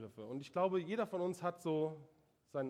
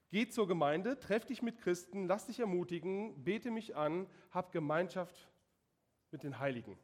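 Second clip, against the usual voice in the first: higher, louder, urging voice of God; 4 semitones higher, 5 dB louder than usual. Acted. Preacher voicing God to the congregation, higher and louder. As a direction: call them to church with a raised, fervent voice. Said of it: "Gott sagt".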